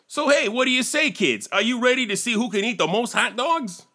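excited. Acted. Pitchman hypes kids.

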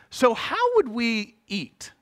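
slow, laughing worry; worried inner voice, laughing. Retold or imitated. His practical inner voice wonders about food money, slow and laughing. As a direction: let the panic leak out through a laugh. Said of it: "other part ... in my brain that was going".

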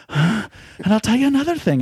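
high, loud hammed-up wrestler promo yell. Caller ranting to the guy on the phone, hammed-up promo yell. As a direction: bellow it like an old-school wrestling promo. Acting out unfit Finley's promo.

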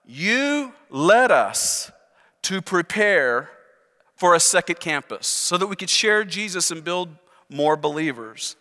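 drawn-out, halting plea to God with stressed words; frustrated prayer. Retold or imitated. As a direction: plead with God in mild frustration, stretching key words. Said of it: "in a sense of frustration".

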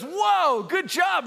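high, loud impressed whoa; hammed-up impressed surprise; mock amazement. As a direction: praise him with exaggerated astonishment. Jesus acted amazed at Peter.

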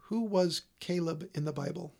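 slow, deliberate voice command; slow clear query to Siri. Real, not acted. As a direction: speak clearly to the phone. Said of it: "Why didn't you ask Siri?".

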